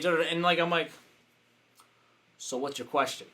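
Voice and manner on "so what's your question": soft, composed question; calmed down. Retold or imitated. Coach answering an upset attendee's rant, calm and soft. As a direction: ask it evenly, without reacting. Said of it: "So I just calmed down".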